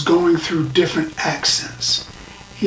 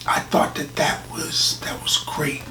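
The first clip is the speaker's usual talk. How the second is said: awed whisper; 6 dB quieter than usual. Real, not acted. Praising the scene.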